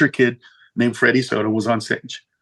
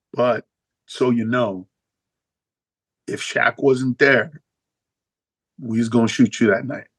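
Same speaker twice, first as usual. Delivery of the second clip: lower tough guy voice; 4 semitones lower than usual. Retold or imitated. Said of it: "He's like".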